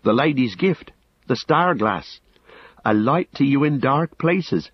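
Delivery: high, urgent cry; urgent and lively. A narrator's reading. Sam reminding his master of the gift, urgent cry. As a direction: call out with life rushing back. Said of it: "life and urgency came back into his voice".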